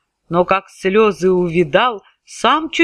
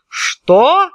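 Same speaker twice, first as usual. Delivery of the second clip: shouting tsar; 3 semitones higher than usual. Acted. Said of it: "закричал он".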